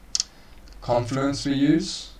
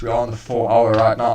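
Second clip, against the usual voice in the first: news anchor voice; 6 dB louder, faster than usual. Real, not acted. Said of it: "I sound like a news anchor".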